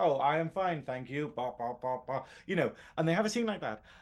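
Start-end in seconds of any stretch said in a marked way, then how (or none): 0.0-2.2 slow, vague, mechanical robot voice. Retelling how a movie character talks, in Fuzz robot voice. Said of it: "talking like a robot and being like".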